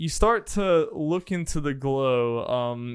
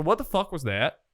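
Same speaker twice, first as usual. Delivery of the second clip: failed southern accent; 3 semitones higher than usual. Shown as a demonstration. Game master retrying a character's line, failed southern accent. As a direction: attempt a southern accent and miss. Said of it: "I can't do that line in a southern accent".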